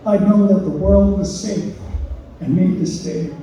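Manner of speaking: measured, deliberate poem recital; poetry reading. Acted. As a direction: read your poem to an audience, phrase by phrase. Reads own poem aloud.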